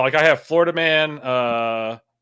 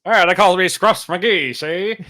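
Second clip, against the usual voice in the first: louder mock tough-guy gangster; 6 semitones higher, 6 dB louder than usual. Cohost introducing himself as an old-time gangster. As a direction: ham it up like an old movie hood. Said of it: "I can't do that voice".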